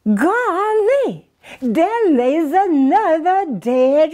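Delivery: high, pleased exclamation; gleefully surprised at his luck. Acted. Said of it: "he says".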